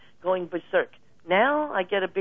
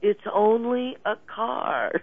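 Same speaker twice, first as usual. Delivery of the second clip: soothing reassurance; 6 semitones higher, slower than usual. Retold or imitated. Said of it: "pointing at the finger, going".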